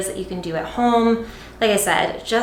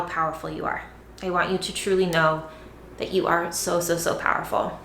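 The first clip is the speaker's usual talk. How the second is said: soft and sincere; 3 semitones lower, 4 dB quieter than usual. Real, not acted. Earnest words of empowerment.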